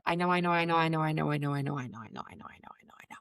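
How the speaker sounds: repeated I know dropping from soft to a breathy whisper; trailing off into a whisper; fading to a whisper. Retold or imitated. Overwhelmed client repeating herself.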